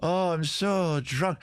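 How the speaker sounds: high, slow, hammed-up drunk gnome; mock drunk gnome. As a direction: play a tipsy little gnome, slurring slowly. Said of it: "They're gonna go".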